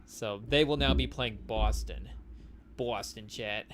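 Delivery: bad Boston accent on Boston; mock Boston accent drawl. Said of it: "don't cancel us for the bad Boston accent".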